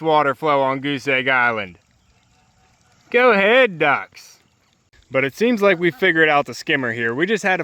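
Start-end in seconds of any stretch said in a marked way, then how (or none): 3.1-4.4 cheering on. Real, not acted. Urging ducks into the water.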